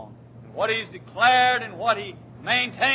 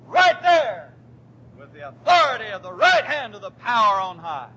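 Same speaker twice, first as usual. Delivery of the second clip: shouted preaching; 3 semitones higher than usual. Real, not acted. Preacher rising to a triumphant climax.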